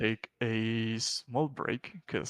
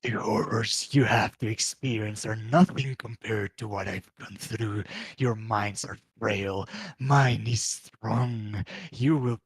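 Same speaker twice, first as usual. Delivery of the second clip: demonic voice. Acted. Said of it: "the demonic voice echo through the caves".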